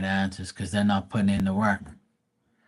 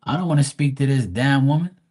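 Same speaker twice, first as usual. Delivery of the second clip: slightly raised, measured voice for a grandma's refusal; refusing grandma; 4 semitones higher, 3 dB louder than usual. Retold or imitated. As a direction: lightly voice an indignant grandma turning someone down. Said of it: "the grandma comes and says".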